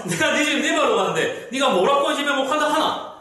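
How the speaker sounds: a mock-angry Gyeongsang line; Gyeongsang dialect. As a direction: scold in Gyeongsang dialect, a bit high. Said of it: "막 화를 내고 있습니다".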